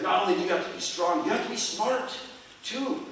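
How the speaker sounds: lightly voiced grandpa driving home a lesson; grandpa's advice. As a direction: punch it like an elder making his point.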